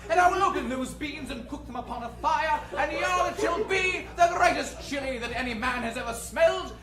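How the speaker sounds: British cowboy. Acted. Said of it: "A British cowboy".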